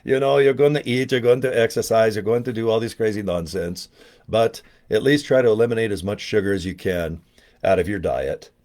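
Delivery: a light attempt at a German accent; mild German-accented advice from a bodybuilder friend. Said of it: "to do his accent, 'cause he's from Germany".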